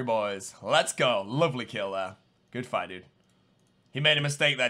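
ordinary talk

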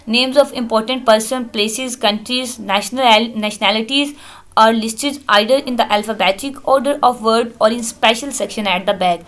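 reading English text aloud, word by word; slow textbook reading. Acted. Teacher reading the book slowly to students. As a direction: dictate slowly to the class.

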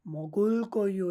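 মগল কইও drawn out very slowly, syllable by syllable; slow pronunciation demo. Shown as a demonstration. Teacher models the Korean future form for students, very slow. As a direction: stretch মগল কইও out so students catch each sound. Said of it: "যদি আমরা ভবিষ্যৎ করি".

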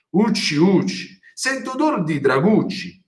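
a hint of a looming giant sniffing; thundering giant. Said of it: "tuonò il gigante".

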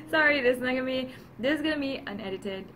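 fast, jittery from too much coffee. Real, not acted. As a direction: rush it, wired on caffeine. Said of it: "sorry if I'm a little bit jittery".

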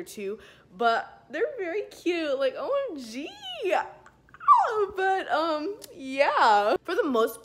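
slight lisp from braces; talking around brackets; speaking with braces. Real, not acted. Seen 3: metal braces visible on teeth in many frames while speaking.

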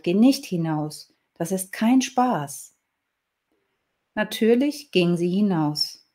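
expressive, melodic read-aloud storytelling; story narration. A narrator's reading. Reading listeners a little story from a book, expressive storytelling. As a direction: read a fairy tale with lively emphasis.

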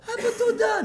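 high, loud imitated child's thanks; mock flattering child. Child thanking father for a toy, mock flattery. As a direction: gush it like a little flatterer.

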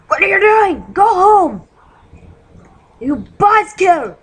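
high, loud yelling at a monster; angry yell at a mob. Real, not acted. Gamer yelling at a skeleton to go home. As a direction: shoo it off, shouting.

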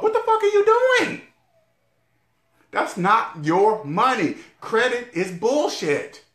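shouting rant that peaks high, then slows; cursing rant. Retold or imitated. Imagined advisor ranting at him about credit cards, peaking into a shout. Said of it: "Somebody would have said this".

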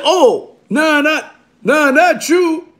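high, drawn-out mock retreat; mock backpedaling. Rival backing down before Killer Kev, mock backpedaling. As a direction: imitate someone hastily backing down.

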